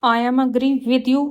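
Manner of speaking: slow, careful read of the wrong sentence; slow teacher dictation. Shown as a demonstration. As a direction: spell it out word by word for the class. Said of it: "wrong है".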